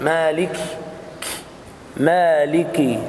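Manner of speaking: slow مالكي with a clean, firm kaf; kaf as it should be. Shown as a demonstration. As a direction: model the correct kaf. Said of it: "هكذا ينطق الحرف".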